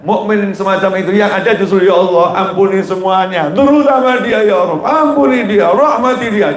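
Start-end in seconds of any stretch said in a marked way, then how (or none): 1.8-6.5 acted plea, rising high; doa memohon. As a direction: build a demonstrative prayer up to a high, pressing plea. Memperagakan doa mukmin yang tulus. (memperagakan doa memohon dengan nada meninggi)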